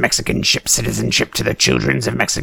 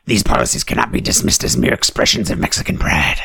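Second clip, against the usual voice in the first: ordinary delivery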